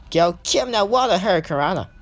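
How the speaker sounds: excited move call. Real, not acted. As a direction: call the big move with a lift. Commentator calls a big wrestling move.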